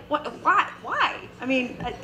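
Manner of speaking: high-pitched, hurried baffled questioning; incredulous protest. Retold or imitated. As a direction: act out dad's exasperated disbelief. Retold dad disputes cash-only demand.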